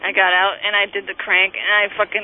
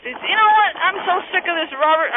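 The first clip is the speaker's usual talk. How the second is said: real fed-up rant, pitched high; exasperated outburst; 5 semitones higher than usual. Real, not acted. Caller venting at the cops.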